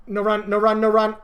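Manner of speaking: urgent shout. Real, not acted. Urgent callout.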